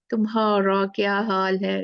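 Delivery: British accent. Shown as a demonstration. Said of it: "ऐसे बोलते हैं ना".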